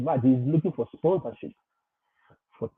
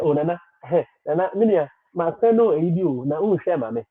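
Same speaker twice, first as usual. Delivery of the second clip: mock pleading caller; 4 semitones higher than usual. Follower pestering Nana for help, in a mock pleading call. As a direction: call out to Nana like a needy follower, climbing higher.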